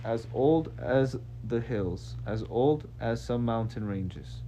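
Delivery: slow, drawn-out alien character voice; lightly voiced alien, stretching the phrases. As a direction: take it slowly as a lightly played alien. Alien answers in accented character voice.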